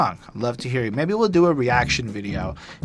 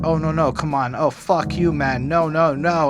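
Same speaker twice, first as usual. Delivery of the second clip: lightly acted panicked protest, louder and higher; mock struggle against being taken over; losing control; 4 semitones higher, 4 dB louder than usual. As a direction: imitate someone losing his grip, only half acted. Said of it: "as he's, like, losing control".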